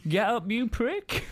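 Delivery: growled threat. Retold or imitated. Footballer hauling the drunk comic up off the chairs, slow menace. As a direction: drag it out like a hard man hissing at you. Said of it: "I felt his hand on me go".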